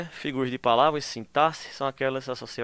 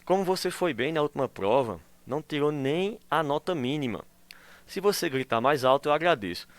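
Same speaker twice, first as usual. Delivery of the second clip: ironic; 2 semitones higher than usual. Shown as a demonstration. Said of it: "ele está ironizando".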